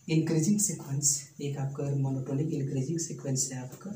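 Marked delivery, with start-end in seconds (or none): 0.1-1.1 slow and deliberate, word by word; slow dictation. Shown as a demonstration. Teacher dictating a theorem to students, slow and deliberate. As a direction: spell it out slowly for notes.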